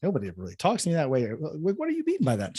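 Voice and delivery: rising in pitch, stammering in retold disbelief; shocked. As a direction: voice shoots up high on the final question.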